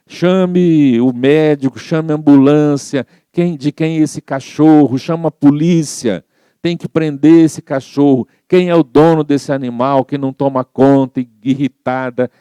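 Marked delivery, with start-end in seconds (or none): 0.0-11.2 a retold old lady yelling for help; gritando desesperada. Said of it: "começou a gritar, desesperada". (grito desesperado encenado)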